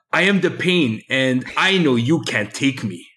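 slow, drawn-out wrestler boast; wrestling promo. Pretend. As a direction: growl it out like a wrestler. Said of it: "devolved into a wrestling promo thon".

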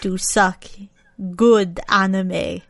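lightly voiced hissing vampire; Dracula voice. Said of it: "spooky vampire voice? Dracula voice?".

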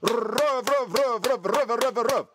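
put-on high, repeated childish shouting; mock shouting. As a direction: yell it into the mic like a kid. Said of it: "så vill man ropa".

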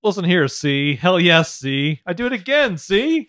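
old gangster-movie impression, punchy and loud in bursts; Cagney. Boasting in a co-host's recap bit, Cagney impression. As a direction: punch it out like a movie tough guy. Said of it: "this is my Cagney".

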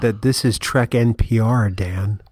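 measured mock public-radio host; NPR host bit. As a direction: play the composed public radio presenter. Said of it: "keep up the N P R bit".

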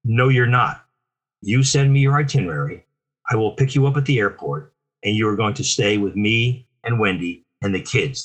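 firm, matter-of-fact instructions. Retold or imitated. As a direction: lay down the plan, no argument invited. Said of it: "very matter-of-factly".

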